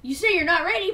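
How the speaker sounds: lightly voiced robot echoing back; Smokescreen repeating. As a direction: parrot the beeps back. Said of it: "It goes basically exactly like that".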